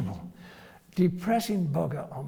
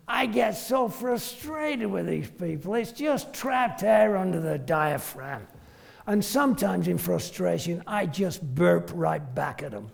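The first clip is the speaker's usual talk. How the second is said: deadpan. Retold or imitated. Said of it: "he does everything deadpan".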